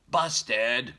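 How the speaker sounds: put-on high, loud little baby voice; baby bear voice. Shown as a demonstration. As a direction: model it for the kids like a toddler. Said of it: "Can you say".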